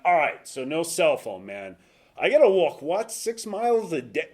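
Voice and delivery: a strained, high retold protest at the rules; exasperated disbelief. Retold exasperated phone plea.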